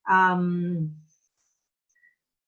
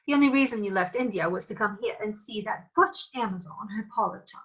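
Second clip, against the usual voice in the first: modern jealous wife; 2 semitones higher than usual. Shown as a demonstration. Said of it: "So kind of the same attitude".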